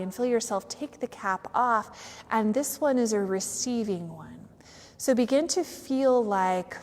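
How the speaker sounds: unhurried yoga nidra guidance with long pauses; measured meditation voice, letting each phrase settle; guided meditation. Real, not acted. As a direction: guide them gently into stillness.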